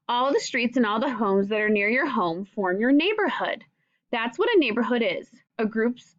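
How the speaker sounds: clear, gentle read-aloud to a class; reading to children. Acted. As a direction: read the book aloud to young pupils, patiently. Teacher reads picture book to class.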